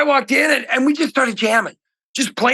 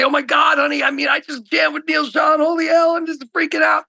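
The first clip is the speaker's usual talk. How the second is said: excited; 5 semitones higher than usual. Retold or imitated. Retold excited call to wife.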